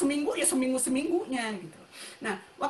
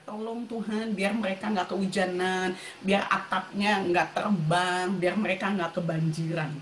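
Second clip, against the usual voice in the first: earnest prayer in a dropped pitch; pleading prayer; 6 semitones lower than usual. Retold or imitated. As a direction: pray it low, phrase by phrase. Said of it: "saya selalu berpikirnya gini".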